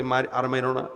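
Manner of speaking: soft, low begging; subdued plea for mercy. Retold or imitated. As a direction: plead quietly to stop the beating. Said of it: "দুজন করজোরে ক্ষমা চায় বলতেছে".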